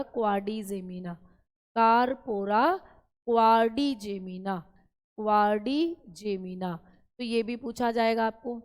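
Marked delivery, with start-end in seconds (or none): 1.8-6.7 slow syllable drill. Shown as a demonstration. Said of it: "teacher drills the term slowly".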